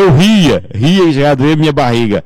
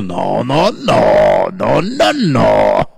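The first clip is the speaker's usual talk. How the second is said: mock protesting refusal; 4 semitones lower than usual. Retold refusal to air story. (recusa brincalhona, em tom de protesto)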